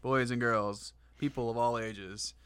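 brash vaudeville comic. Pretend. Announcing a joke to audience.

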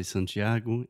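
Santiago said the Portuguese way. Shown as a demonstration. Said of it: "in Portuguese, you would say".

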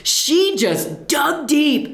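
slow, high, laughing. Real, not acted. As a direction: drag the words out while laughing.

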